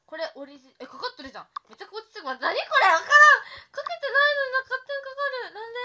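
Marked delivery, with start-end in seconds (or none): 1.7-5.8 loud, high laughing outburst; laughing shriek. Real, not acted. Streamer losing it over the face filter, shrieking laughter. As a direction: laugh and shout through the words at once.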